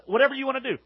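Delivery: dismissive shrug. Shown as a demonstration.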